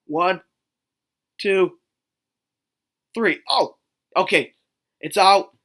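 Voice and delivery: imagined onlooker loudly declaring that she's okay; mock announcer counting. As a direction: count it off and announce it to the whole room. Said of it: "some guy standing there like".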